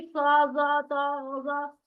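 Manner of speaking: सा, जा, ता, जा with thick, drawn-out dark "aw"-like vowels. Shown as a demonstration. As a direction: say सा, जा, ता, जा full-mouthed, each vowel rounded and held. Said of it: "ये बहुत मोटे और ऊंचे पढ़े जाते हैं". (सा, जा, ता, जा मोटा और ऊंचा पढ़ें)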